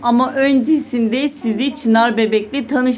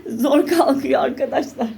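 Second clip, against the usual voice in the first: laughing; 4 semitones higher than usual. Real, not acted. Laughing while lifting baby.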